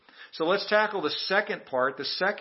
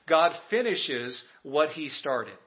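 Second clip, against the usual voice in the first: slow call to repeat. Shown as a demonstration. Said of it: "Say that to someone sitting next to you".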